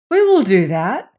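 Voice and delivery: put-on lightly cheerful children agreeing; upbeat, willing reply. A narrator's reading. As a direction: agree with ready good cheer. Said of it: "said the boys and the girl quite cheerfully".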